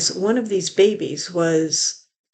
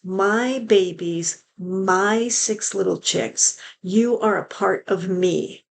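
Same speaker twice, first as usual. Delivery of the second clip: drawn-out syrupy mockery; slow mocking quote; slower than usual. Quoting Ruby's apology with slow mockery. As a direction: stretch it out sarcastically. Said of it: "She's just lumping them all together".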